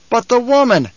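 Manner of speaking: high, menacing objection; deadly menace. A narrator's reading. Man above raises the woman's fate, menacing. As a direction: press the point with death in it. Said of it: "There had been death in that voice".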